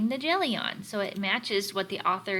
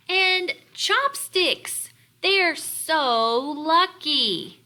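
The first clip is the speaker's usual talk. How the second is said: reading Spoon's envy; 6 semitones higher, 6 dB louder, much slower than usual. Acted. Reading Spoon's envious line.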